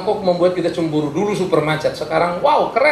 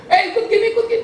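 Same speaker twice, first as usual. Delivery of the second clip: mock order. Mimicking officials ordering people around.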